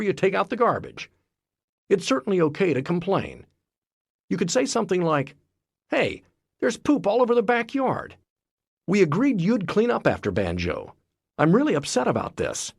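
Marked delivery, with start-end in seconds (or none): 5.9-12.7 firm but non-attacking complaint; level, honest grievance. Retold or imitated. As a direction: state the problem without blame. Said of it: "While this is confrontational, it's not an attack".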